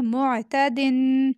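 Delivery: "मुअतदिन" with a distinct throat Ain after मु; clear Ain. Shown as a demonstration. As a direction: sound the Ain in "मुअतदिन" clearly, holding the final n. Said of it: "आइन की आवाज़ वाज़िह करेंगे". ("मुअतदिन" में आइन की आवाज़ साफ़)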